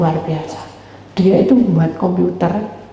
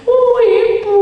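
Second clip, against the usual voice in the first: very high, loud cry of Ibu; girl's plea; 4 dB louder, slower than usual. Retold or imitated. Girl greeting the counselor, high clinging cry of Ibu. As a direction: call out like a clinging young girl.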